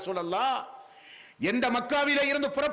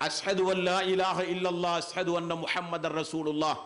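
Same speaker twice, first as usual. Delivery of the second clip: lower, measured recital of the shahada; Arabic creed recitation; 6 semitones lower than usual. Retold or imitated. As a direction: recite the testimony of faith in a lowered pitch. Dying man's testimony of faith recited. (தாழ்ந்த குரலில் கலிமா ஓதுதல்)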